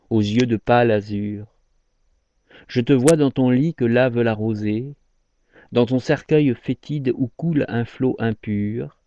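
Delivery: solemn, measured verse with lingering line ends; poem recitation. Acted. Lover addresses a dead mistress in her coffin, poem recitation.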